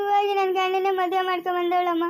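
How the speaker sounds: weep through the complaint; sobbing over the husband's second marriage; crying. Acted. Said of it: "ಕಲ್ದಿರ ಅಳ್ಬೇಡ". (ಅಳುತ್ತಾ ಹೇಳುವುದು)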